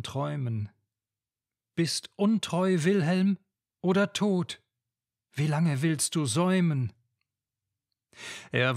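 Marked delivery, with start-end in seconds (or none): 1.7-6.9 higher, louder, urgent call to an absent lover; fearful pleading for Wilhelm; anxious cry from a dream. Acted. Lenore wakes and calls out for Wilhelm, anxious and louder.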